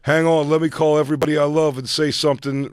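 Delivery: mock biopic hero. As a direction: announce it like obvious foreshadowing. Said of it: "He's like".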